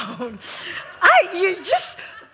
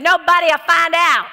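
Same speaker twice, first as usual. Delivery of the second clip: imitating her tempting line; 3 semitones higher, 6 dB louder than usual. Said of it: "I like the way she said it".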